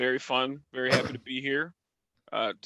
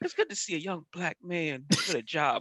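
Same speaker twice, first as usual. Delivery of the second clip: hushed half-whisper, like a stage whisper; 4 semitones higher than usual. Retelling an older woman customer's remark at Best Buy: imitating a half-whisper. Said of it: "you don't gotta whisper it".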